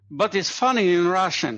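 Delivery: a self-mocking, deliberately terrible Russian accent; bad Russian accent. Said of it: "my Russian accent is terrible".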